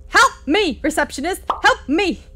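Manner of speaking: high frantic cry for help; panicked plea. Acted. Reading player character's panicked plea.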